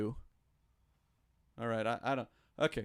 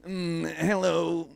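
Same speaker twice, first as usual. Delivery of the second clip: very slow, drawn-out mock hello; a light imitation of Harrison, slow; slow RFK-like impression; much slower than usual. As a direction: stretch it slowly like a strained old voice. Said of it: "That's how he sounds".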